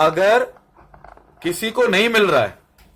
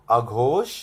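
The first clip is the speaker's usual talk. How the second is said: dictation; 5 semitones lower, 4 dB quieter, much slower than usual. Shown as a demonstration. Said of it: "यहां लिखो".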